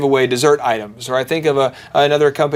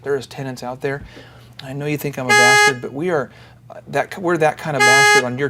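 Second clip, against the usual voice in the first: wounded dog; 3 semitones lower, 5 dB quieter than usual. Retold or imitated. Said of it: "and I wounded dog".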